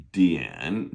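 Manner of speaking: Dian dipping low and coming up; third tone. Shown as a demonstration. Teacher modelling second syllable of dictionary, dipping third tone. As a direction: dip Dian down, then let it rise. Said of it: "third tone".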